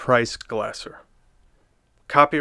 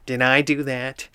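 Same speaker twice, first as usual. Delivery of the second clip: Steve Urkel impression. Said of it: "Steve Urkel just coming in and going".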